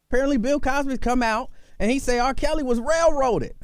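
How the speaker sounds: can you believe this, high and disbelieving; incredulous. Real, not acted. Incredulous retelling of news.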